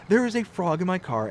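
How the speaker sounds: mock-stern imitation of wife; worked-up wife. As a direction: lay down the law. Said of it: "I'm making her sound like she's, like, this crazy person".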